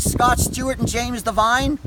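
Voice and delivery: furious shout. Real, not acted. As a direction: yell their names in real rage. Screams the officers' names.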